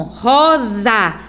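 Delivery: rosa, the S said as a buzzing Z; sounding out rosa. Shown as a demonstration. Teacher repeating rosa to show the Z sound. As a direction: let the Z in rosa ring. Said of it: "Tem som de Z".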